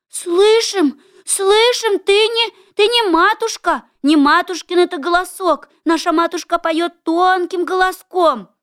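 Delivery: squeaky little goats refusing; little kids voice. A narrator's reading. Little kids answer the wolf.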